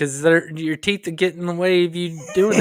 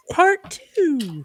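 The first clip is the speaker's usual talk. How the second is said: much higher, drawn-out announcer call; fighting game announcer; 13 semitones higher than usual. Pretend. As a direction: belt it like a ring announcer. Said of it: "Do you need me to do the announcer voice thing?".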